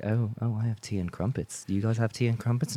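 understated snobbish British voice; British snob. Acted. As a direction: lightly put on a snooty Brit. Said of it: "You can sound like a snob".

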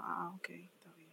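very faint, slow whisper; barely audible, resigned okay; whispered acknowledgment. Retold or imitated. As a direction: whisper it like in a cinema. Quotes hushed reply in movie theater.

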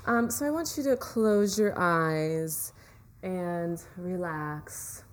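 calm relaxation guide voice; guided meditation. Acted. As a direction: ease them into relaxing.

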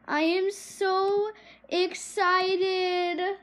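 slow, stretched-out excitement; excited. Real, not acted. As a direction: draw each word out with excitement.

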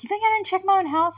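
high, loud and fast retort; mock indignant outburst. Joyce snapping at Hopper, mock indignation. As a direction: fire it back, offended. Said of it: "And she's like".

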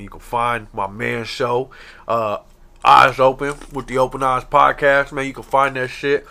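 talking around ice in mouth; cold mouth full of ice. Real, not acted. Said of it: "I got ice in my mouth".

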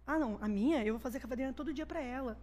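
lightly imitating boys talking softly, a little low; low-voiced chat. Boys chatting privately in a tent, mildly hushed. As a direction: retell it softly, like overheard tent talk. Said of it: "E eles conversando sobre essas coisas, baixo".

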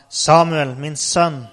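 loud call to a son. Acted. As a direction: call the boy over, projected. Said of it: "Da ropte Eli på Samuel og sa". (høyt, faderlig rop)

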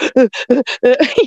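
short rhythmic mock sobs; huffed boohoo noises, mimicked; imitated panic sobbing. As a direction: imitate someone gasping through a panic attack. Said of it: "having a panic attack".

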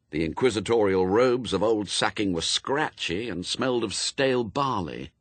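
ordinary delivery

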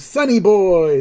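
mock joyful holler; Abe. Father going in to hug his son, exuberant. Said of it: "And then Abe goes".

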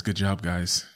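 ordinary delivery

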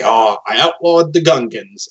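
slow, pleased, lightly voiced Emperor; a hint of a smug galactic ruler, taking his time; Emperor impression. Retelling a Star Wars sketch, Emperor speaks slowly and smugly. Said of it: "I'm gonna try to do my Emperor impression".

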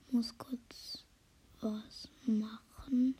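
hushed whisper, trying not to be heard. Real, not acted. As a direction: whisper so nobody wakes up. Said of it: "Ich muss leise sein".

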